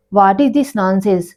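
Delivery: slow, deliberate irritated demand; annoyed. Acted. Daughter scolding a stranger's messages, slow and irritated. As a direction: spell out each word in mild annoyance. Girl annoyed at persistent texter.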